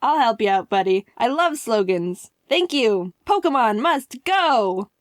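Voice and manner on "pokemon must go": slow, stretched-out catchphrase; slogan proclamation. Retold or imitated. Misaki offering his own Pokemon slogan, drawn out. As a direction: declare it proudly, drawing out each word.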